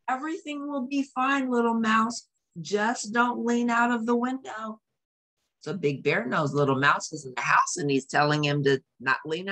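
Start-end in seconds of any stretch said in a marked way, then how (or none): 0.1-4.8 high, reassuring call while running. Acted. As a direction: call back over the storm, steady and kind. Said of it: "calling out".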